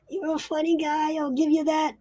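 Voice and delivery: high, squeaky little imp voice; chuckle, then pipe up in a high imp voice; high-pitched cheeky underling; amused imp. Acted. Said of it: "says the imp".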